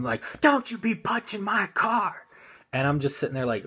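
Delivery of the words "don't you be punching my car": high, scolding mock yell; imitated yelling. Mom scolding the driver, high mock yell. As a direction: wag a finger at him with your voice. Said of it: "she's just yelling at him".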